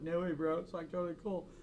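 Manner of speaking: laid-back Southern California bro impression; casual Southern California surfer-style accent; Southern California dude. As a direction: imitate a SoCal guy, lightly put on. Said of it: "like a Southern California guy".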